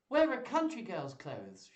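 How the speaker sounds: lightly acted burst of inspiration; mildly excited idea. A narrator's reading. Rosalind voiced with a sudden idea.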